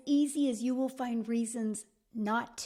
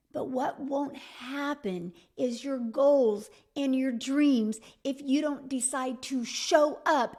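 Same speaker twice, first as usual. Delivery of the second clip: emphatic slow; 2 semitones higher, 5 dB louder, slower than usual. Acted. Closing call to action.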